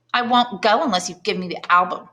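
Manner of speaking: put-on child refusing his mother; stubborn child. A narrator's reading. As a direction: dig in like a defiant child.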